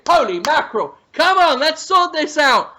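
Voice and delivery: heated, scolding tirade at the kitchen; telling them off in a worked-up voice; Gordon Ramsay rant. Acted. Ramsay berates a kitchen over its food, heated rant.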